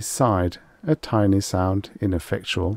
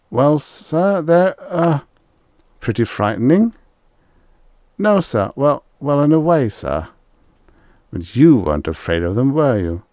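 high, louder, stammering fear; frightened stammer; 8 semitones higher, 5 dB louder than usual. Acted. Rye cowers before Extroni, high and scared. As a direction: stumble over words in dread.

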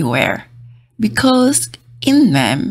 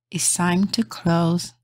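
soft bedtime whisper; 5 dB quieter, slower than usual. Acted. Librarian telling everyone it's closing, whispered. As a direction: hush the room for closing time.

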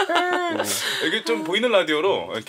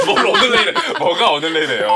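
laughing in disbelief; 6 dB louder than usual. Real, not acted. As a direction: laugh through the question.

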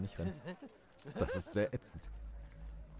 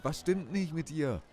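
high, loud, slow mock Indian accent shout, stress on nicht; hammed-up Indian accent yelling at her; bad Indian accent; 10 semitones higher, 6 dB louder than usual. Girlfriend yells at Penny in a clumsy Indian accent. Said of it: "Ich kann keinen indischen Akzent nachmachen".

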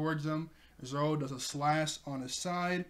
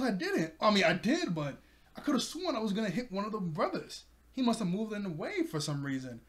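defensive protest; 6 semitones higher than usual. Acted. Acted excuse after being scolded.

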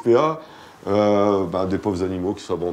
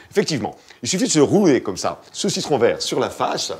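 hammed-up TV shopping host, slightly higher; infomercial; 4 semitones higher, 3 dB louder than usual. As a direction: sell it like a pushy TV pitchman. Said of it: "Imagine que tu es présentateur de téléachat".

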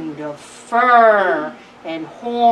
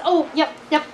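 higher-pitched mouse giving orders; bossy mouse instructing; 4 semitones higher than usual. Acted. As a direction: supervise the job, drawing out the last words. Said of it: "giving instructions".

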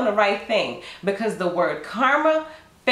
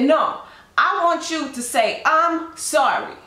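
higher, slow indignant demand; demanding stranger; 5 semitones higher, slower than usual. Acted. Offended stranger demanding an apology, higher and slow. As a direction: drag out I'm sorry with entitled attitude.

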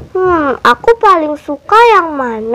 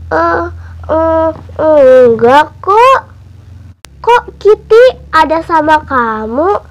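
put-on guilty boy Emon. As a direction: stammer an embarrassed confession. Emon character voice.

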